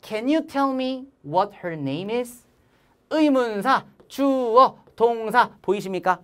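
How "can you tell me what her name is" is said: very slow, every word drawn out; slow model reading for students to repeat; slow choral reading. Shown as a demonstration. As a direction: read it slowly together with the class. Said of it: "시작!".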